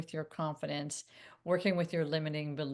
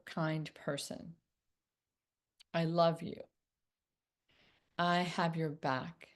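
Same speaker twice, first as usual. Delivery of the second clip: gentle self-encouragement. Pretend. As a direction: talk yourself down kindly, like a friend. Encouraging yourself with a mantra.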